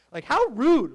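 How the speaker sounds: put-on a light sitcom-kid "how rude", punched loud; Stephanie Tanner. Pastor's tribute to Bob Saget, light Stephanie Tanner impression. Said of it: "here's my Stephanie Tanner moment".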